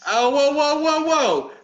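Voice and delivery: high, loud string of whoas; alarmed objection. Real, not acted. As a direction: cut in hard to halt a misunderstanding. Urgently stops co-host's misreading.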